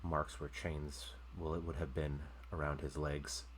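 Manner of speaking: game master scene setting. Acted. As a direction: let each image hang before the next.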